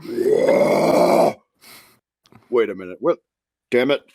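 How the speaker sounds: a low, breathy devil muttering in disbelief; the devil, baffled and annoyed. Acted. GM voicing the devil noticing his stolen bag. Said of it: "the devil looks around and is like".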